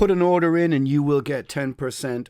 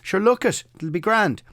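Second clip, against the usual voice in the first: put-on broad Dublin accent, pitched higher and jaunty; mock Dublin accent; 6 semitones higher than usual. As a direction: ham up a carefree Dubliner. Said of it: "as they call them in Dublin".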